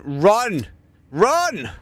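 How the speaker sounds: high, loud, urgent cries; very high frantic shout; urgent yell. Real, not acted. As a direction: yell at him to run. Caster urges player to flee.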